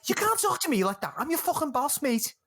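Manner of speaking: high, affronted Scouse boss; indignant Scouse boss. Retold or imitated. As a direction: protest like an offended kitchen boss. S0 plays Vince.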